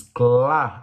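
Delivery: "clá" stretched, L touched behind the teeth; clear L demonstration. Shown as a demonstration. Teacher shows pupils where the tongue goes, slow, clear "clá". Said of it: "a língua toca exatamente atrás dos seus dentes".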